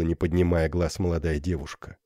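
plain reading voice

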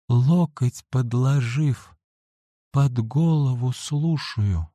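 slow, labored, halting words; each phrase a weak effort; struggling to speak. A narrator's reading. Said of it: "с трудом проговорила".

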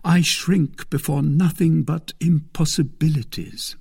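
high, lively declaration; bold boast. A narrator's reading. D'Artagnan boasting to Milady that nothing daunts him, bold and high.

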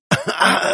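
high, strained choking cough; wheezing cough. A narrator's reading. Beaten brother wheezing on the ground. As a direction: cough as if unable to breathe. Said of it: "хрипел упавший парень".

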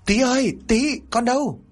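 high desperate call into the yard; calling out loud. A narrator's reading. Mother calls out for her missing son, very high. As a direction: call for the lost child. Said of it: "mà kêu lớn".

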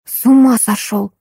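a light squeal at her husband; snapping at the son, mild mock shriek. Daughter-in-law scolding her husband, light shriek. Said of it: "взвизгнула зайка".

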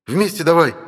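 urgent shout. A narrator's reading. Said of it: "прикрикнул".

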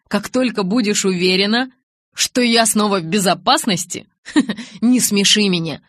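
lightly voiced young man, mocking; a hint of scornful Jacob. Jacob mocks Bella.

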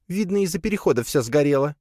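put-on high spider girl explaining; squeaky spider shrugging it off. (высокий голосок паучихи)

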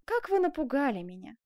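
coquettish. Acted. Seamstress chides the lover who startled her, coquettish. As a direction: flirt through a mock fright. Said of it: "кокетливо вскрикнула она".

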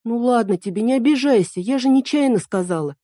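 put-on high, apologetic girlish plea; guilty plea. A narrator's reading. Эль apologizes to the frowning fairy, high and guilty. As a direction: coax her not to be offended. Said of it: "виновато попросила Эль".

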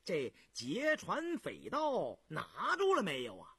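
grinning reply. Acted. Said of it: "胤祥笑嘻嘻的".

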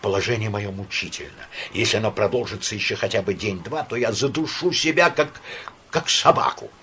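shaky pleading, rising to despair; trembling plea that climbs at the end. Acted. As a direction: beg with a trembling voice. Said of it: "сказал он дрожащим голосом".

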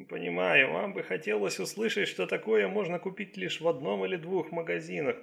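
a hint of a careful, explaining doctor; Chinese doctor, apologetic. Doctor telling policewoman the herbs are common, mildly apologetic.

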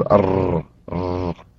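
a short trilled ر, sounded twice and fading away; mock faulty ر trill; rolled ra demo. Shown as a demonstration. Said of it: "يتردد".

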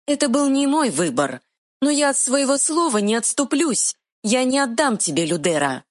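high, quick fairy voice; tiny fairy retort. Acted. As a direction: snap back like a tiny fairy. Fairy speaks.

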